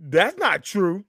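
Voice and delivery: slow, high whiny denial; mock protest. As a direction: drag it out in playful protest.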